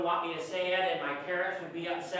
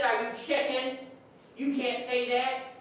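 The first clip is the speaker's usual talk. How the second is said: retold goading; 5 semitones higher than usual.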